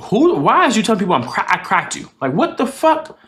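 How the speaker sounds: exasperated retold challenge; retold pissed-off. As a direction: demand an answer, acting out annoyance. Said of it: "I end up getting pissed".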